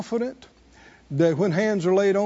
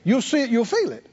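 raised, insistent preacher's delivery; emphatic preaching; 7 semitones higher than usual. Acted. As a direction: preach it with drive, pitched up. Preaches with rising force.

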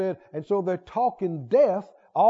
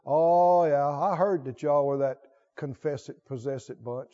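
mocking scoffer; 7 semitones lower, 3 dB quieter than usual. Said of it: "They ridicule and say".

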